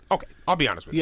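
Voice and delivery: hammed-up confessing patient; mock patient. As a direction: play the sheepish patient.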